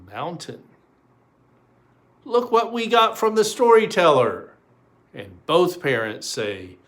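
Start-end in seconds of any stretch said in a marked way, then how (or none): 2.2-4.5 high and louder, thrilled; excited kids. Acted. Two kids show off the mountain, high and loud. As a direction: call it out with delight.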